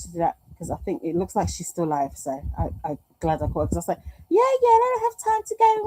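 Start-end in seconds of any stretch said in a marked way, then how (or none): 4.3-5.9 hurried. Retold or imitated. Imitating Kelly hurrying off.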